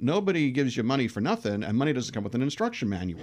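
put-on light New York accent, brisk at the end; grandpa's wise saying in a New York accent. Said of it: "in his nice New York accent".

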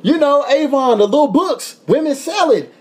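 a grinning American explaining Avon to zookeepers; eager explaining. Retold or imitated. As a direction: push the point with amused disbelief.

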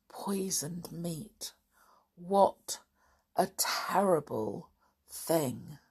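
grave, slowing storybook reading; hushed storyteller closing a chapter; children's story narration. A narrator's reading. Reads a children's story aloud.

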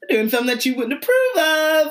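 imitating Harry. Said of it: "voicing Harry, laughing".

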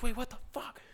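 high mock yell; retold scream. Teammate yelling across the rink at the missing goalie. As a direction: shout it in disbelief like the teammate. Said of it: "Marshy's screaming at the top of his lungs".

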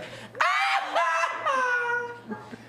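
high, wild cackling Joker laugh. Shown as a demonstration. Showing friends his Joker laugh, high manic cackle. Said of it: "Já viu a risada do Coringa?".

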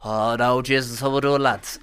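light Dublin accent at ordinary pitch. Shown as a demonstration. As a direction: try out an easy Dublin lilt. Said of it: "I'm better at this accent".

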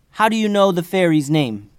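put-on high, loud kid voice; kid wizard. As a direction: demand it like a young boy. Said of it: "asked the kid wizard".

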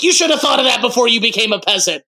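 lightly voiced Yzma scorn; mock disdain. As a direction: sneer it lightly like a snob. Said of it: "she's like".

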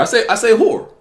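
"horror" as one syllable, like "hore"; swallowed word ending. Real, not acted. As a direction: say "horror" high, dropping the second syllable. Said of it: "enunciate the last part of the word".

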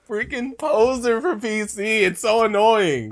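high, loud, stretched-out complaint; exasperated whine. Real, not acted. Host ribbing PC-loving co-host as a poser, exasperated whine. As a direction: whine it loudly, dragging the words. Mocks friend's PC enthusiasm, annoyed.

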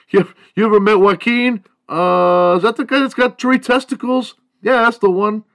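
high, loud put-on teen voice; gossipy classmate. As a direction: trade the rumor in a squeaky mock voice.

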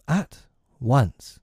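firm, resolute reply. A narrator's reading. Wendy insisting to the lost boys on leaving, resolute. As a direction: answer with resolve. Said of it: "Wendy replied resolutely".

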